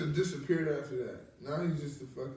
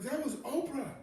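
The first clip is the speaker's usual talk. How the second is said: desk lady; 11 semitones higher than usual. Retold or imitated. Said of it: "she's like".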